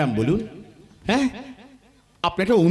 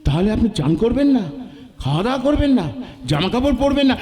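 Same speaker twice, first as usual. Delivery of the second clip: laughing reply. Acted. Laughing at the boss's request.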